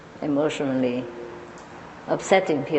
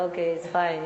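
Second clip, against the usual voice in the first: laughing okay; 4 dB quieter than usual. Retold or imitated. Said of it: "he just laughed and said".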